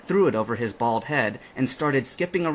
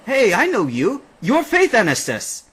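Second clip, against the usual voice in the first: much higher, louder excited fan; starstruck fan; 11 semitones higher, 7 dB louder than usual. A narrator's reading. Captain recognizing Faith, starstruck excitement. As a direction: gush in delight.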